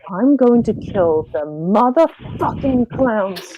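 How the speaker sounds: slow, emphatic threat; Artemis vowing revenge. Acted. Player voicing Artemis bent on destruction, menacing vow. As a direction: draw out the vow word by word. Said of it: "I think she'll be like".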